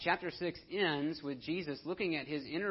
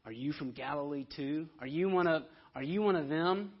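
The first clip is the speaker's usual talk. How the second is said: insulting sneer; 3 dB louder than usual. Retold or imitated. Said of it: "notice how they respond".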